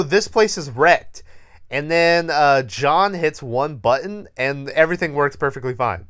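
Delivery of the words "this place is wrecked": higher, louder, lifting at the end on wrecked; mocking quote. Mocking the characters' line before the button fixes everything. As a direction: repeat it as if it's ridiculous. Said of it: "they go".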